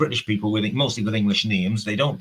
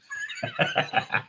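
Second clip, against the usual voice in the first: high staccato giggle; quick high-pitched ha-ha laugh; 5 dB quieter than usual. Real, not acted. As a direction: let out a squeaky giggle. Chuckles at own remark.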